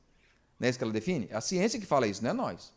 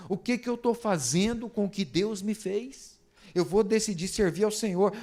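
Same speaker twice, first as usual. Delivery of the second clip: lightly declaimed personal vow, higher pitch; declaration of faith; 4 semitones higher than usual. Shown as a demonstration. Preacher modelling a vow for the congregation, mildly declamatory. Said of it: "Fala assim".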